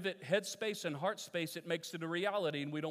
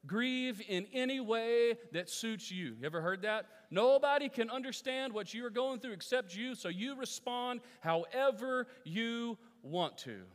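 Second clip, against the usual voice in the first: high, loud mock advice voice; sarcastic sing-song take on pop psychology; 9 semitones higher, 6 dB louder than usual. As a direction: mimic the world's easy advice with scorn. Mocking modern psychology's advice.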